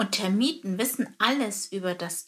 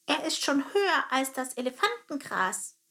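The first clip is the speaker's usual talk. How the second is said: higher proud soldier voice; boasting termite captain; 6 semitones higher than usual. Acted. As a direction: show off the tower.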